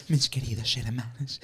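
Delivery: soft, mushy mock preacher voice; imitación burlona de predicador. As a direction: imitate your co-host's churchy address, softly. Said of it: "Sí sonaste bien el de". (voz burlona y suave de predicador)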